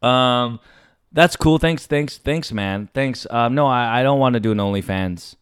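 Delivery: low, subdued nervous politeness; acted-out timid mumbled brush-off; curt, meek refusal. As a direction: decline softly, just trying to survive. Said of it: "my answers are very, very curt".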